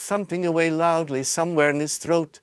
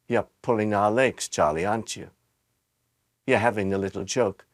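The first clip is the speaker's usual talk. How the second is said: softly; 5 semitones lower than usual. A narrator's reading. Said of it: "very softly".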